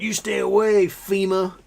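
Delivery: high, loud mock warning; imitated indignant lady. Florida lady telling FEMA off, imitated indignation. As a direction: warn them off like an angry local.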